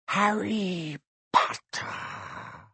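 slow, high, soft hiss; eerie whisper. Acted. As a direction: savour the name like a snake. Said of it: "it whispered".

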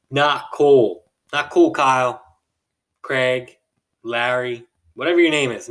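"Not cool" said loud with a falling, scolding tune; indignant scolding. Real, not acted. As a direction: tell him off like he's in the room. Scolding the rude pilot directly.

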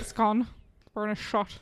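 Sean Connery. Retold or imitated. Mocking an accent attempt, Sean Connery voice. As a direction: echo it in a rough Scottish impression. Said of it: "that's just Sean Connery".

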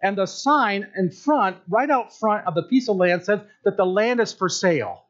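lightly voiced eager buyer in a skit; preacher acting out an eager buyer at a title office; acted skit buyer. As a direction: play the excited buyer, a touch hammed.

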